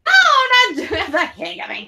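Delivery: high squeaky laugh breaking through the words; laughing hiccups. Real, not acted. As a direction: deny it while the giggles keep bursting out. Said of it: "Are you laughing or hiccuping?".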